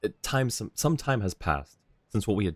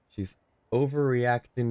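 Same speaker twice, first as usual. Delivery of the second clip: laughing; 5 semitones higher, slower than usual. Real, not acted. Laughing at a repeated game line.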